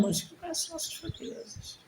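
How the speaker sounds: high, soft, slow, nearly whispered; moved preaching. Real, not acted. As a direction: let the voice thin out slowly. Overcome, speaking of weakness. (voz embargada, quase sussurrada)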